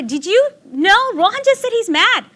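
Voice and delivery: high, thrilled voice; excited news-breaking. Retold or imitated. Mother phoning her husband with the big news, excited. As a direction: share amazing news, pitch leaping up.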